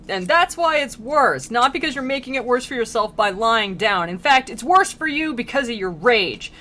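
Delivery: exasperated telling-off, played for laughs; Virgil losing his temper. Guide embarrassed in front of Dante, mock-angry scolding. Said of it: "losing his temper at this guy".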